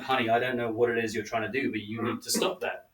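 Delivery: put-on laid-back West Coast American accent; California accent. Actress scolding a fellow actor at the read-through, California accent. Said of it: "in her thick California West Coast vibe".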